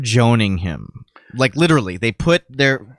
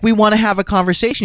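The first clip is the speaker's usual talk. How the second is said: higher, fast prissy mimic; lightly mocking woman at the rally; mock lady; 9 semitones higher, faster than usual. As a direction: imitate the earnest lady. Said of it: "she's like".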